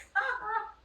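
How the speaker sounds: high, loud burst of laughter; retold high-pitched laughing reaction; reacting laugh. Her retold reaction to the broker.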